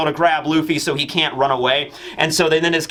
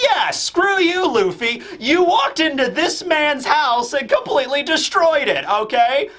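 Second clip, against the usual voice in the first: whiny Kaido; 9 semitones higher than usual. Acted. Kaido voiced scolding Luffy.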